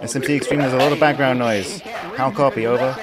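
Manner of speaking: crackly military radio. Pretend. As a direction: call out like a soldier on comms. Calling a teammate over radio.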